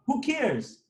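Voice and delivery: fired-up rant. Real, not acted. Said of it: "now I'm gonna talk like this".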